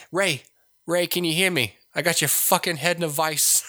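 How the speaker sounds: a hint of a tough-guy movie menace; Joe Pesci. Imagining the actor as Emperor calling to Ray, light impression. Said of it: "let him be old Joe Pesci".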